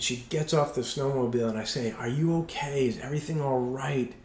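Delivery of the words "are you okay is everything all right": gentle concern. Retold or imitated. Worried husband checks crying wife.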